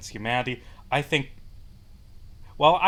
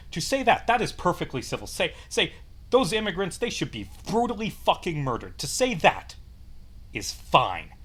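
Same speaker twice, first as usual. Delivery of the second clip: sarcastic outrage; 3 semitones higher than usual. Real, not acted. Outraged sarcastic rant on civility.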